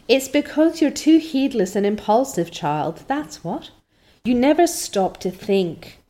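a hint of a lecturing matron; stern older woman. Mrs Lynde scolding Anne, a lightly stern older woman.

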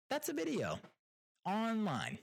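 jumps high in disbelief; incredulous. Real, not acted. Telling viewers about the shocking video, incredulous. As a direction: say it like you can't believe it.

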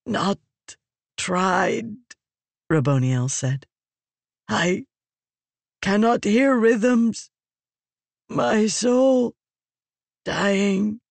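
slow, high, strained dying voice; dying Fused. Acted. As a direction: urge her with failing breath.

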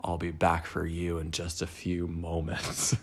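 low, menacing demon voice; lightly voiced demon tempting her; demonic voice. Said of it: "this demonic voice in my head said".

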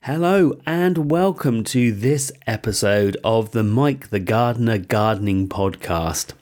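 bunged up with a cold; stuffy voice from man flu; blocked nose. Real, not acted. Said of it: "excuse my voice because I'm bunged up with man flu".

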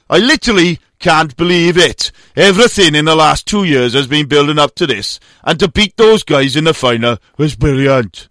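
a light Welsh lilt quoting the cyclist; lightly put-on Welsh voice for the quote; Welsh accent. Host quoting a Welsh cyclist, light Welsh accent. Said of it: "I'm glad you can do a Welsh accent".

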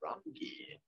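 tipsy. Real, not acted. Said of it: "I'm a little drunk right now".

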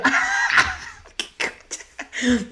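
squealed very high, then a slow drawn-out second half; mock outrage. Teller reacting to the Los Teques woman, shrieked mock outrage. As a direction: shriek it in disbelief, then stretch it out.

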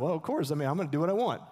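offhand, easygoing voicing of the crowd; casual shrug. Preacher voicing his congregation, casually offhand. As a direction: toss it off like it's obvious. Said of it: "A lot of us are like".

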